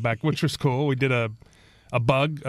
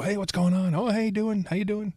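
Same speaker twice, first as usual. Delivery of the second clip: higher-pitched office hello, re-enacted; acted friendly greeting; 7 semitones higher than usual. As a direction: play a casual drop-by greeting, pitched up.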